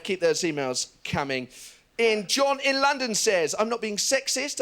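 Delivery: authoritative newsreader delivery; mock news anchor, grave and measured; Sky News anchor voice. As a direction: parody of a live Sky News presenter. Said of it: "I would love to turn on Sky News".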